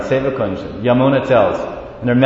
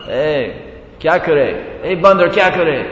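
talking to a monkey. Retold or imitated. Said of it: "He wasn't speaking to the monkey in Bengali or Hindi".

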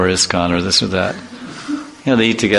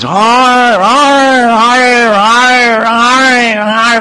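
very high, loud yelping dog imitation; dog saying hi; 6 dB louder, much slower than usual. Imitating the top dog greeting the speaker, in high loud yelps. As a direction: yip it out like an excited little dog. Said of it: "like this, you know".

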